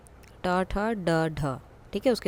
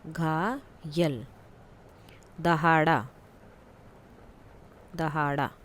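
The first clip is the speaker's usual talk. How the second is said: slow dictation; 3 semitones lower, much slower than usual. Shown as a demonstration. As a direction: stretch घायल out so pupils can write it. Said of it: "जैसे कि घायल". (घायल को बहुत धीरे खींचकर बोलना)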